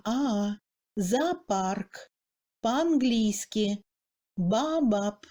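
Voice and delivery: Zoopark as "za-apark", both A sounds heard; по-английски and baobab with unstressed O said as A, doubled; double A. Shown as a demonstration. Teacher shows merged vowels, two A sounds. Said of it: "on prononce deux A".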